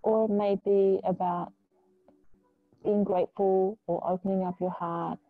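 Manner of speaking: calm, measured yoga-teacher guidance with long pauses; unhurried meditation voice; guided meditation. Real, not acted. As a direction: ease them into stillness, leaving space between phrases. Leads a grounding meditation.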